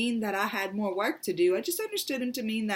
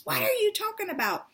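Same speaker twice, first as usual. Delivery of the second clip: much higher, fast, outraged question; mother snapping at her daughter; imitating an indignant mother's reply; angry mother; 12 semitones higher, faster than usual. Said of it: "She got so angry at me".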